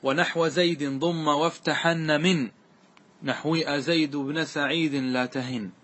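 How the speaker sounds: slow, drawn-out chant of the verse; slow classical verse recital; verse recitation. Shown as a demonstration. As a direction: recite the poem line slowly and evenly. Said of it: "ثم قال".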